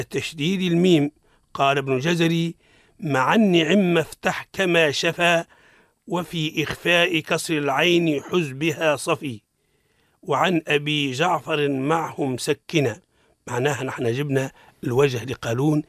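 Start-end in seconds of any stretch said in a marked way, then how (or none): 3.0-13.0 slow, measured poem reading; verse recitation. Acted. Teacher quoting Ibn al-Jazari's verse to listeners, measured recitation.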